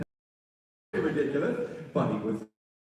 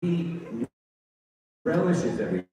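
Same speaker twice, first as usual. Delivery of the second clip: villain voice; 6 semitones higher than usual. Shown as a demonstration. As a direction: savor every word like a villain. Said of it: "relishes it more, and slows things down".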